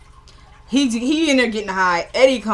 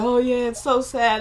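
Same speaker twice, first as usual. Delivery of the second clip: lightly mocking fake sympathy. Eddie making fun of Ben, mocking. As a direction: imitate him, with a touch of mock pity. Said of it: "he started mocking Ben".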